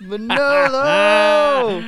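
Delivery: high, loud, long-held holler of the name; booming mock summons; drawn-out call. Calling out the name.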